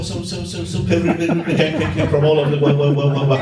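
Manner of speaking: echoing announcement chime then repeated word trailing off; train station echo. Shown as a demonstration. Imitating his echoing voice in a vaulted room, like a station announcement. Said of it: "sounds like a train announcement".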